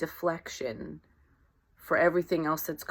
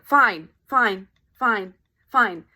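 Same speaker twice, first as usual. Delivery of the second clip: louder repeated dodging "fine"; rapid brush-off; 5 dB louder, slower than usual. Retold or imitated. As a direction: bat each question away. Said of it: "you're like".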